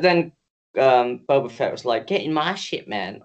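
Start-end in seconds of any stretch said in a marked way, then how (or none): 2.1-3.2 badly faked Australian accent, dropping away at the end; failed Australian accent. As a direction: attempt an Australian accent and miss. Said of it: "that's not an Australian accent".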